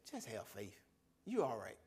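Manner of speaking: low, soft reassurance; calm voice of God. Retold or imitated. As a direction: settle an angry man gently. God calming his anger.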